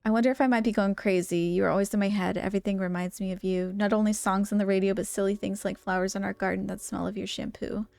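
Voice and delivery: even, measured reading voice; composed letter narration; letter read-aloud. Acted. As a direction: read a love note aloud, evenly.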